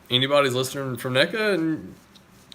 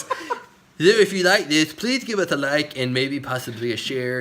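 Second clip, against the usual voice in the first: nerd voice. Pretend. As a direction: put on a goofy nerd voice. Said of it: "do my nerd voice".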